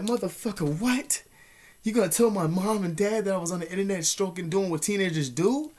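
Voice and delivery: high-pitched, incredulous retold outburst; freaking out. Teen to his blackmailer on the internet, freaking out. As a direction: replay being freaked out, pitch jumping up. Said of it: "at first I was freaking out".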